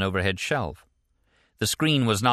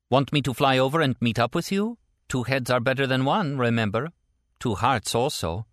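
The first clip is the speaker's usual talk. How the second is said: lightly voiced woman, pitched up; higher character voice, coaxing; Stella, hopeful offer; 6 semitones higher than usual. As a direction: make a tentative offer, slowing at the end. Stella offers to fly over.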